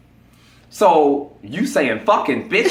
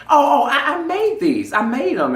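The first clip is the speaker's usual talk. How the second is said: put-on girly voice; 13 semitones higher, 3 dB louder than usual. Girl voiced, retold.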